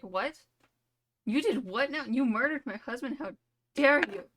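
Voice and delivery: hammed-up shock turning to fury; outraged queen. Queen confronts the killer, rising to an outraged shout. Queen learns of husband's murder.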